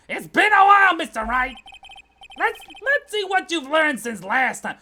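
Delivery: loud, high-pitched courtroom challenge; high, pushy prosecutor voice; taunting rival prosecutor. Acted. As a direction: crow at your old opponent.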